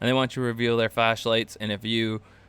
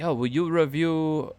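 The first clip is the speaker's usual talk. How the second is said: imitating an Asian accent, pitched up; half-joking Asian accent on a request; mock Asian accent, higher and slow; 6 semitones higher, 4 dB louder than usual. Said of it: "I started to slip into my Asian accent".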